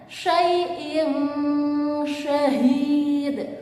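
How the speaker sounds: syai'in syahid with a blurred nasal n; ikhfa reading. Shown as a demonstration. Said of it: "dibaca secara ikhfa atau samar".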